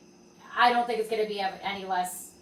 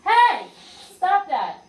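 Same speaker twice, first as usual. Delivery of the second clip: much higher, louder yelp of protest; mock alarm at the cat; startled shout; 10 semitones higher, 13 dB louder, much slower than usual. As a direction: friend yelping at the cat to stop. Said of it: "she's got her paws here and she's".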